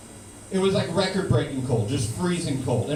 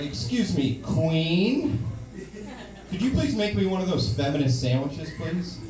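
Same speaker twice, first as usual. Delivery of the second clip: overly polite; 2 semitones higher than usual. Retold or imitated. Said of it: "So I was like".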